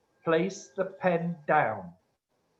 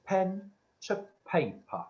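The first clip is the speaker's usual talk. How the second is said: slow, drawn-out spirit command; 2 semitones higher than usual. Retold or imitated. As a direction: spell it out slowly like a voice from beyond. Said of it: "and Spirit said".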